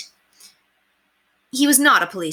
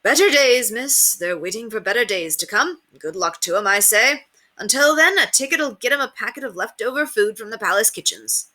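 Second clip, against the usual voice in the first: sly street tout; 4 semitones higher than usual. Acted. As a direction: sell the line like a showman. Ticket man voiced.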